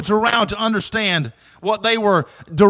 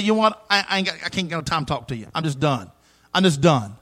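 exhausted, fed up; 5 semitones lower, 6 dB quieter than usual. Retold or imitated. Retold fed-up tired speaker.

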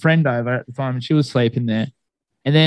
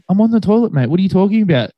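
mock-exasperated, higher-pitched comeback; retold exasperation; 4 semitones higher, faster than usual. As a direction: act out a puzzled protest to a brother. Acted back-and-forth with his brother.

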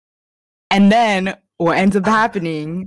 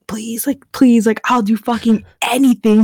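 higher-pitched mock pleading, growing louder; retold begging; 4 semitones higher, 4 dB louder than usual. Retelling how he begs her on the floor, mock pleading. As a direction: plead urgently, imitating a desperate character. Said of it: "like, fucking begging".

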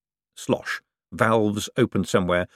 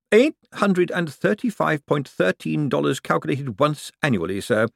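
calmly; 7 semitones higher than usual. A narrator's reading. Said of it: "said Bent calmly".

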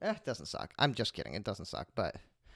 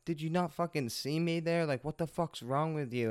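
mildly indignant, higher-pitched retelling; pissed off; 5 semitones higher, 4 dB quieter than usual. Retold or imitated. Angry lady knocks on his car window, retold as pissed off.

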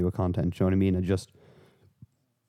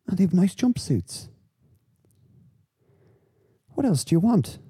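mock enthusiasm; 10 semitones higher than usual. Ironic sales pitch about jumpsuits.

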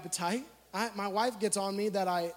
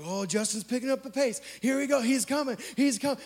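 higher, excited imitation of cheering onlookers; mock screaming crowd; 3 semitones higher than usual. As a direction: act out a crowd urging him on, not full volume. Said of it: "they're screaming like".

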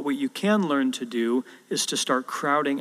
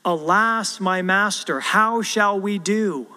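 panicked servant, archaic; 5 semitones higher, 3 dB louder, slower than usual. Retold or imitated. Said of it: "he says in the old King James".

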